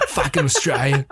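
laughing through a put-on Aussie twang; broad imitation Australian; mock Australian accent. Joking about Crowe after the grand, mock Australian accent. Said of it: "Stop doing the voice".

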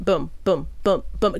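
evenly spaced spoken thuds; imitated metronome of running feet; metronome footfalls. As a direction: beat out steady footsteps with pauses. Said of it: "The metronome of my feet".

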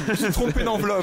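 exclamation gênée, plus haute et plus forte; confus et surpris. Real, not acted. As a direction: avouer l'erreur d'un coup, vivement. Se rend compte de son erreur. (l'animateur découvre sa gaffe d'enveloppe, surpris)

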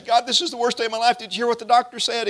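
high, quick cry to God; mock distress, high and urgent; distressed complaint. Acts out believer complaining to God.

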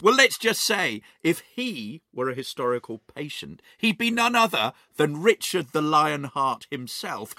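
mock-epic announcer flourish; grand introduction. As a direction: herald your co-host like a valiant king.

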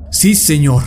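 quick curt yes sir; snapped reply. Acted. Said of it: "espetó el desdichado".

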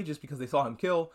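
usual speaking voice

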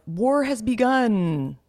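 slow, ominous mock announcement; dramatic announcement. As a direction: intone it like doom is coming.

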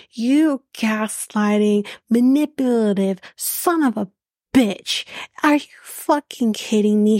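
slow, cutting insult "You gaslighting"; angry retort. Retold or imitated. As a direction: spit the insult out slowly, scornful. Retelling telling the guy off.

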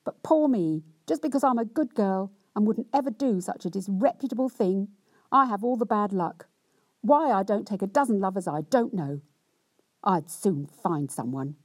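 hammed-up self-pitying rant; cross, wronged wife. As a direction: lay on the injured virtue, complaining. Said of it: "in much the same way as before".

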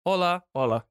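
mock Spanish greeting; hammed-up hola. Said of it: "That's Spanish".

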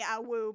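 a flirty, eager howl; horny awoo. Retold or imitated. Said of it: "different from a horny".

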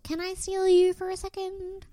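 high simpering mock ask; high mock flirty ask. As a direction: put on a coy high voice. Mocking cocktail party line.

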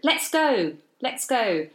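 a hint of an insistent toddler; imitated eager toddler. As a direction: lightly voice a small child keen to leave. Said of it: "He just, yeah".

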